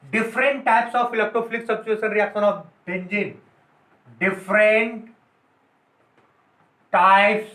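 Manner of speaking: slow, word by word, so the class can write it down; the rejected heading read out slowly for notes; slow dictation. Shown as a demonstration. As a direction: dictate "Different types of electrophilic substitution reaction of benzene" slowly, each word apart. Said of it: "different types नहीं बोल सकते हो".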